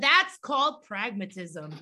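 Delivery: slow, deliberate delivery, dropping off on the last word; drawn-out punchline. Retold or imitated. Co-host echoing a guest's catchphrase, drawn out. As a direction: stretch it out slowly like a slogan.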